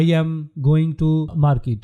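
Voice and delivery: spoken slowly with a pause after "I am"; "going to market" drawn out word by word; slow example sentence. Shown as a demonstration. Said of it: "For example". (آہستہ آہستہ بولا گیا مثال کا جملہ)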